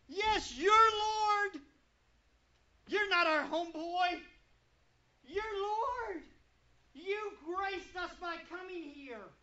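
slow, humble, pleading, softening toward the end; humble plea. Acted. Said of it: "how the Nazarenes should have responded".

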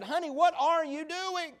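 a hint of a baffled mom questioning her child; puzzled mama. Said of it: "So she went in and said".

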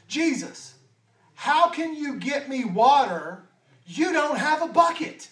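a skeptical woman complaining he has no bucket; the woman's retort. Acted. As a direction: push back at him in disbelief. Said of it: "the way I would say it if I was the woman".

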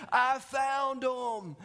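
dramatic phone call, words stretched; acted urgent call. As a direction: play the hero calling it in slowly. Acting agent's urgent phone call.

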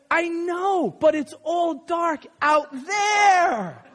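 high, drawn-out mock wail; slow childish protest, stretching the ending; Little Bear. A narrator's reading. Cub protesting to Big Bear about outside, plaintive. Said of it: "And then Little Bear says".

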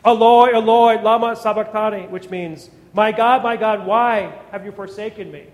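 crying out loud and high across the room. A narrator's reading. Preacher voicing Jesus' cry from the cross, loud cry. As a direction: cry the words out like a man in agony. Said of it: "Jesus cried out in a loud voice".

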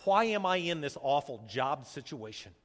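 loud, pleading string of whys; anguished complaint to God, building; crying out to God. Acted. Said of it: "I've cried out".

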